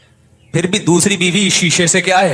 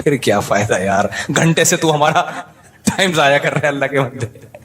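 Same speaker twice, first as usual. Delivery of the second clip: laughing tease. Retold or imitated. To the Lahore trader, teasing retort with laughter. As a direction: laugh while brushing him off.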